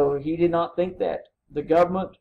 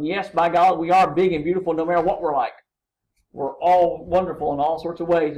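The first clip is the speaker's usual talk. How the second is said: exuberant Whitman; 5 dB louder than usual. Retold or imitated. Whitman's exuberant proclamation retold.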